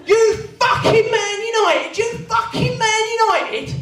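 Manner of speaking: high, loud menacing roar; thug's bellow. Retold or imitated. Huge fan looming over him, bellowing. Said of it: "It carries on".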